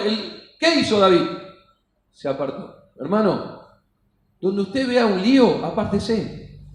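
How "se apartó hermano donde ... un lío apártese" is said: low, softer confiding advice; hushed brotherly tip to the congregation; quiet aside. Acted. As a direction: lean in and tell him like a brother.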